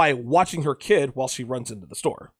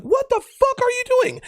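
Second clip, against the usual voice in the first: retold yell across a parking lot, pitched far higher; calling out across lot. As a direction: fling it across the lot in a high mock yell. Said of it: "she calls out from all the way across the parking lot".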